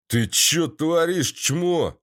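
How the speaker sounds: slow, rough thug snarl; barking thug. Acted. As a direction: bark it like a street thug. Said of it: "рявкнул негодяй".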